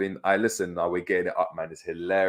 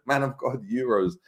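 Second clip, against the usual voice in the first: mock plea, slightly higher in pitch; Curtis Jones; 4 semitones higher than usual. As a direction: lightly imitate a footballer begging for help. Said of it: "that's Curtis Jones".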